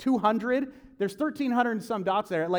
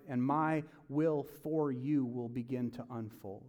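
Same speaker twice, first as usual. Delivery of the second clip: slow, gentle instruction; calm, patient divine voice; God's calm voice. Acted. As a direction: speak slowly and reassuringly as God. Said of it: "he says".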